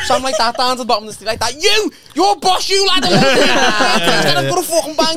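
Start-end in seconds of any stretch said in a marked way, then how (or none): 0.1-3.0 mock shouting bloke. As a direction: bellow it like a lad squaring up in the street. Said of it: "So I'm like".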